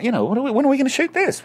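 high-pitched, rapid retold irritation; annoyed. Tired actor questioning the shoot after sixteen hours, annoyed. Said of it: "annoyed 'cause I've been working".

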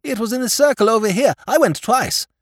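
high, loud jolly interjection; chattering upper-class silly lord; chatty lordship. A narrator's reading. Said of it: "interpolated his lordship chattily".

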